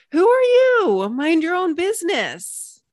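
high, loud indignant squirrel snapping back. Acted. Squirrel snapping at the projector who offered unasked advice, high and loud. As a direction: snap it out like a startled, offended squirrel.

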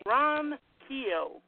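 "Ronquillo" said slowly as two separate beats; name pronunciation demo. Shown as a demonstration. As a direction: sound out "Ronquillo" slowly, splitting after "Ron". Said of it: "How do you say it?".

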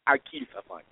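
put-on Jamaican accent. Warning teasing friends off, mock-tough in a low Jamaican accent. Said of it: "You hate my Jamaican accent".

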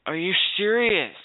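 outraged disbelief. Real, not acted. Raging at his internet provider.

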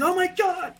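high, frantic voice; panicked shrieking people. Retold or imitated. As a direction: shriek it like a shocked bystander. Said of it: "white people started going crazy".

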